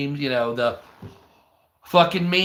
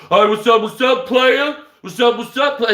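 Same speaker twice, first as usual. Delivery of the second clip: mocking a country boy acting hood, higher and louder; imitating a hood voice; 6 semitones higher, 5 dB louder than usual. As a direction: lay on the fake street greeting. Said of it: "country white guys that act hood".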